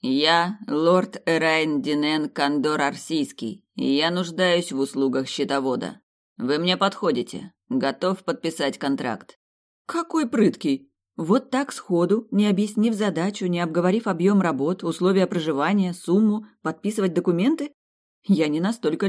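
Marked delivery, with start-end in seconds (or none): 0.0-9.4 velvet voice. Acted. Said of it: "глубоким бархатистым голосом заявил". 9.9-17.7 indignant. Acted. Heroine's indignant inner rant.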